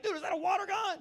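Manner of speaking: high, loud incredulous dude voice; skeptical stranger. Retold or imitated. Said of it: "They're like".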